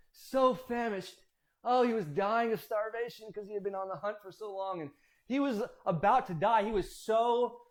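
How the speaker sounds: hammed-up storytelling urgency; mock desperation. Storyteller playing up how famished Esau was, mock desperate. Hyperbole about dying of hunger.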